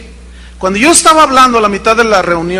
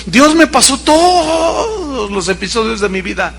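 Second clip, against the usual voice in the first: tearful retelling; 3 semitones higher than usual. Retold or imitated. Woman recounting her sorrow, crying.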